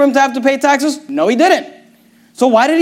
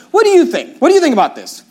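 Jesus asking; 5 semitones higher than usual. Retold or imitated. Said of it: "He says".

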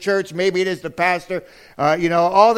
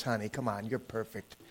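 very quiet, lower, soothing wife; soft reassurance; 7 semitones lower, 16 dB quieter than usual. Retold or imitated. Wife reassures husband about his weight, softly soothing. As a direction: gently hush the worry away.

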